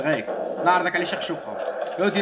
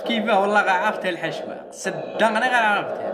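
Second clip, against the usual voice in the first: excited; 6 semitones higher, 3 dB louder than usual. Real, not acted. Caught by the trap.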